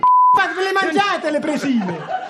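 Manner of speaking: high, laughing outrage over lost oven mitts; exasperated rant. Acted. Chef ranting to the presenter about oven mitts, high and outraged. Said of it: "Si calmi".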